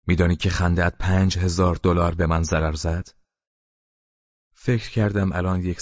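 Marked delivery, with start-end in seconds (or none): 0.1-3.1 a moderately raised, scolding voice; angry shout. Acted. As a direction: tell him off for the costly laugh. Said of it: "به طرف سید پرید و فریاد زد".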